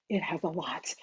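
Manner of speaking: dropped right down, nearly under the breath; soft aside. Real, not acted. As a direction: say it softly to yourself. Hyping the ebook to viewers.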